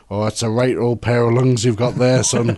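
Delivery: lightly attempted Irish accent; a hint of Irish in a quoted line; half-hearted Irish accent. Quoting a film character in a pub, half-hearted Irish accent. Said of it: "Only in a better Irish accent than that".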